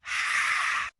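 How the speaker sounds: long, voiceless exhale; breathy sigh. A narrator's reading. Sound after grim news in story.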